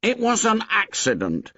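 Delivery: high stubborn insistence; high stubborn repeat. A narrator's reading. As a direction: dig in and refuse. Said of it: "said Piggy stubbornly".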